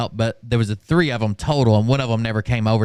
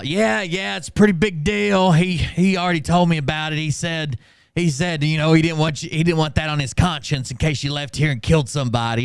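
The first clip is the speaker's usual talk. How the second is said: mocking manager; 4 semitones higher than usual.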